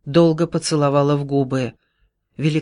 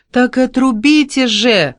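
higher, louder, slow desperate plea; a desperate woman begging, louder and slow; pleading cry; 9 semitones higher, 6 dB louder than usual. Acted. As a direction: beg him to cut it off at once. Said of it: "взмолилась Вера".

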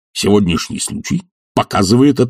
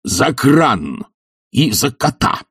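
higher, abrupt bark; mild angry bark; sudden bark; 7 semitones higher, much slower than usual. Acted. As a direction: bark it suddenly, dropping the ironic calm. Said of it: "рявкнул вдруг Филипп Филиппович".

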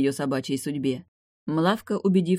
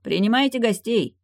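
hearty call; 7 semitones higher, 5 dB louder than usual. Acted. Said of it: "сказал".

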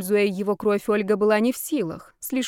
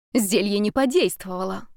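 usual speaking voice

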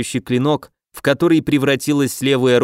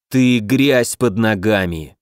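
menacing villain; 4 semitones lower, slower than usual. Acted. Villain insult.

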